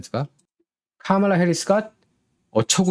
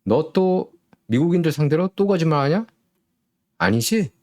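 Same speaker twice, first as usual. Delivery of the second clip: mocking sarcasm; 6 semitones higher than usual. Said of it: "이렇게 비꼰 겁니다".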